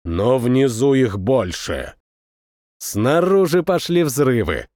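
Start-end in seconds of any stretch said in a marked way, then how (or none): 0.0-2.0 displeased. A narrator's reading. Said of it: "недовольно проговорил Таргин".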